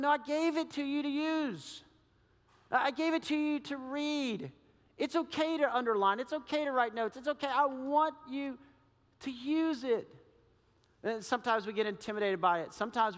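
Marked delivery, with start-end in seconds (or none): 0.0-10.1 voice of God. Retold or imitated. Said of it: "And God's going".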